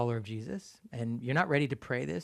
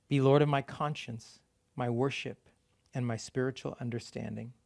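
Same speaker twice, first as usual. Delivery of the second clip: prayer read again, a bit slower and steady. Acted. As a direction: lead the prayer unhurried for them to follow. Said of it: "I'm gonna read that again slowly".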